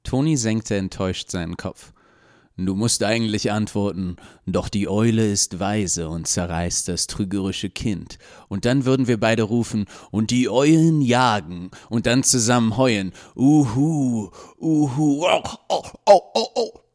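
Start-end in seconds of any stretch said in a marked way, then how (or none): 2.6-13.1 building excitement. Acted. Toni rambles, building. 13.3-16.8 rising loud hooting howls; owl howling. Acted. Toni howls like owls.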